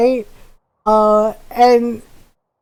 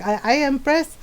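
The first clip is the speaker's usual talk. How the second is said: put-on accented Filipino mom telling off her son; imitating scolding mom; 3 dB quieter than usual. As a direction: mimic a mother's stern, deliberate threat. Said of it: "do my voice really well".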